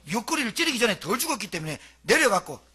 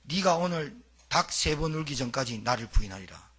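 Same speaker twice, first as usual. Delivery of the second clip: low, grave prophecy with weight on 네가; solemnly foretell the betrayal, stressing 네가; Jesus foretelling; 6 semitones lower, 4 dB quieter than usual. Retold or imitated. Preacher quoting Jesus to Peter, low and solemn. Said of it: "가기 전날 뭐라 했는지 압니까".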